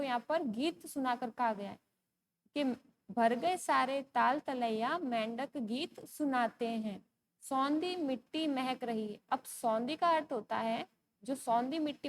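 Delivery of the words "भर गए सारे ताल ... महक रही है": slow, measured reading of verse; poem recitation. Acted. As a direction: read the poem slowly to a class. Reads the verse again. (धीरे-धीरे कविता पाठ)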